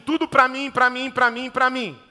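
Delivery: insistent, self-centred chant; lightly voiced greedy repetition, beat after beat; Lúcifer. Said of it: "Lúcifer é assim". (voz egoísta e insistente, levemente imitada)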